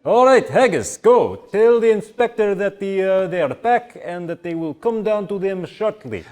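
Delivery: high, loud yelled orders; Malakis yelling. Acted. Innkeeper yelling orders at his dwarf servant, loud. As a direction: yell instructions at the servant. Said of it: "Malakis yells at them".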